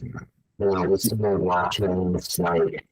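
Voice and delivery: bubbly, garbled bad connection; underwater. Real, not acted. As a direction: voice gurgling through a broken line. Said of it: "It, it sounds like you're underwater".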